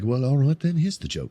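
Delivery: lightly imitated British accent. Actor relaxing into an audition joke, British accent. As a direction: slip into a casual British vibe. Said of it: "they just go into their British vibe".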